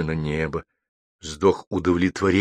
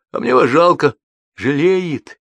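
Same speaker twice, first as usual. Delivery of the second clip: crowd of high little voices; rustling murmurs; 11 semitones higher, 5 dB louder, slower than usual. A narrator's reading. Umbrellas and raincoats pass remarks along, high-pitched murmuring. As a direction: voice separate onlookers, pitch raised. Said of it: "шуршат зонты и плащи".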